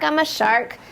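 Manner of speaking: ordinary delivery, nothing marked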